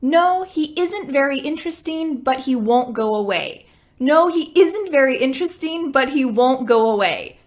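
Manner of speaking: natural quick pace. Shown as a demonstration. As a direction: run it at normal speed. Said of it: "Quickly now".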